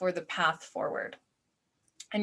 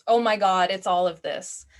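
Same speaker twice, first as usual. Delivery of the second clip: mock panicked outburst; 5 dB louder than usual. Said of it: "It's like".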